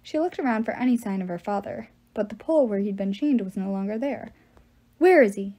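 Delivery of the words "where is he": louder, urgent demand; forceful worried question. A narrator's reading. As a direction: demand an answer, punching it out. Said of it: "she demanded".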